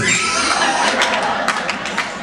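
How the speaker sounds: mock laugh at someone else's misfortune; imitated rooster laugh. Rooster laughing at two punished brothers, imitated mocking laugh. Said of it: "the rooster laughing at both of us".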